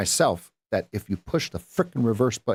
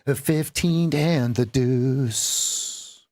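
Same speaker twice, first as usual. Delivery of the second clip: slow slogan; 3 semitones higher, much slower than usual. Shown as a demonstration. Trading rule slogan.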